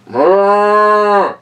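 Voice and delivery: cow moo. Acted. The cows moo as the train zigzags. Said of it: "said the cows".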